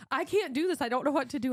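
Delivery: high, mildly frantic pleading; retold panic. Daughter begging dad for help with snake, panicked. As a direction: replay a helpless plea.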